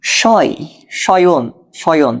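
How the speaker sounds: "শয়, শয়ন" said slowly, first part drawn out; sounding out. Shown as a demonstration. Teacher showing students the অয় sound, sounding out. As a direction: stretch the অয় glide inside "শয়ন". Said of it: "তাহলে অয় হলে কি হবে?".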